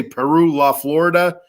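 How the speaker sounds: "Florida" said FLOR-uh-duh, American style; hillbilly-ish Florida. Shown as a demonstration. Host showing why he sounds hillbilly, FLOR-uh-duh for "Florida". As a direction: hit the first syllable of "Florida", swallow the middle. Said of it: "I sound like a hillbilly".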